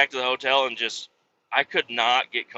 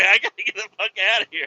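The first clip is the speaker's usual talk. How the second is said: fast, higher, louder rush out; hurried escape; 7 semitones higher, 4 dB louder, much faster than usual. Retold or imitated. A trucker desperate to leave the cook, in a fast panicked rush. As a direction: blurt it and bolt.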